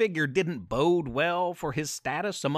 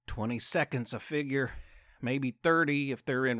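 resigned; 3 semitones lower than usual. Acted. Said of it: "resignation in his voice".

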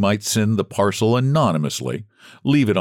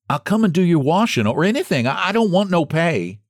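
higher, lightly voiced pleading old woman; a touch of humble pleading, pitched up; begging old woman; 9 semitones higher than usual. Margaret begs Missus White for work, mild pleading.

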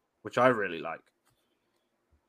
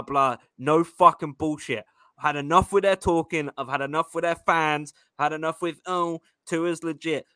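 fired-up hype rant. Acted. Host hyping fans before the Dolphins game, fired-up rant.

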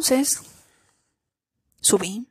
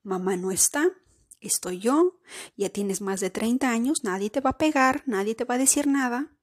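put-on comforting inner child. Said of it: "abrazar ese niño interior de decirle".

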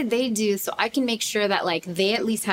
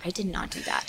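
uneasy; 2 semitones lower, 8 dB quieter than usual. Retold or imitated. Son denying again.

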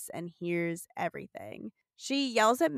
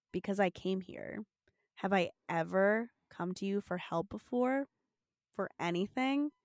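somber; 5 dB quieter than usual. Retold or imitated. Retelling Sam's answer to Fred, somber and hushed. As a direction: say it dead serious, quietly. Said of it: "somberly says".

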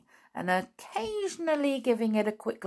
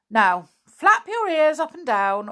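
higher, louder command; bossy doctor order; 10 semitones higher, 7 dB louder than usual. Acted. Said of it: "ordered the doctor".

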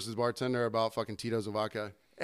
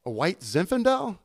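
dawning realization; 5 semitones higher, 3 dB louder than usual. Retold or imitated. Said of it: "And I was like".

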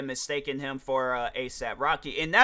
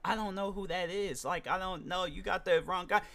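softer, baffled brush-off; lightly voiced confused stranger; confused denial; 3 semitones higher, 7 dB quieter than usual. Black man brushing off a mistaken fan, softly baffled. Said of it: "the person's like".

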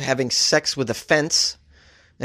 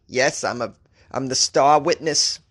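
put-on failed stab at a Scottish accent; botched Scottish accent; 2 semitones lower than usual. Wife answering her husband about the trial, botched Scottish accent. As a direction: try a Scottish accent and miss. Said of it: "That wasn't a Scottish accent. I can't do one".

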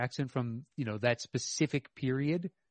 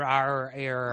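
New England accent. Shown as a demonstration. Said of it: "the put upon New England accent".

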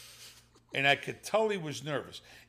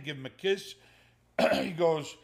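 ordinary delivery

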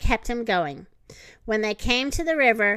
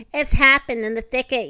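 mild yell; 4 dB louder than usual. Acted. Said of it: "yelled Thumper".

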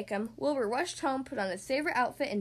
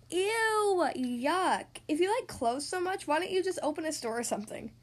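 sarcastic disgust; 2 semitones higher than usual. Acted. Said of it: "very sarcastic".

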